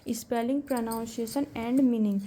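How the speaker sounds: slow, word by word dictation. Shown as a demonstration. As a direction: spell it out slowly for notes. Teacher dictating terms slowly. (धीरे-धीरे लिखवाना)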